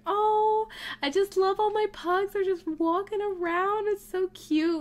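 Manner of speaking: high-pitched cooing over pets; adoring gush. Real, not acted. Player watches the pugs walking around, adoring gush. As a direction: coo adoringly, pitched well up.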